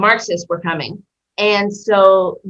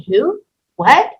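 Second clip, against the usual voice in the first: startled high yelp of disbelief; shocked; 6 semitones higher, 3 dB louder than usual. Retold or imitated. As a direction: caught off guard, who and what. Shocked at mother mention.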